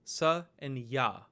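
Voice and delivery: sa, and ya drawn out slowly; slow it down for the class; slow breakdown. Shown as a demonstration. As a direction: lay out each sound slowly. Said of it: "a combination of ta".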